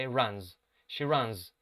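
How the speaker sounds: runs ending in a buzzing Z; Z sound. Shown as a demonstration. Teacher showing the class runs with a Z sound. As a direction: say runs with a voiced Z at the end. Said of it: "runs debería ser pronunciado con la Z".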